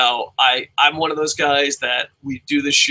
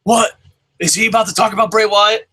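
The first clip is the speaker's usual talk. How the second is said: mock surprise; 6 semitones higher, 4 dB louder than usual. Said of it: "And he's like".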